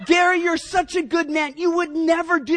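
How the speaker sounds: high, loud laughing quote. Retold or imitated. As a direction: laugh through the words. Retelling Lisa's laughing reply.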